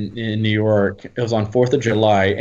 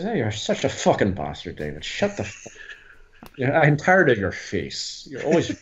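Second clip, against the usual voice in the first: Irish banter. Retold or imitated. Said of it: "hello to Irish people".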